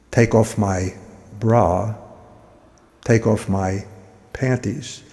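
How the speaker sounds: slow, low, soft orders with long pauses; hushed, unhurried tease; mock seductive commands. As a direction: draw out each command softly, as if seducing. Woman's slow commands in hotel room.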